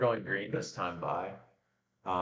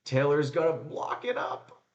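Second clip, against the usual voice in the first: live play-by-play; 3 dB louder than usual. Real, not acted. Commentator following Porsche and Ricky Taylor, excited play-by-play. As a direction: call the overtake as it unfolds, rising in excitement.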